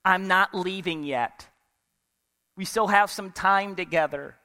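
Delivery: gently and tenderly. Acted. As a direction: comfort her gently. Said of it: "he gently and tenderly said".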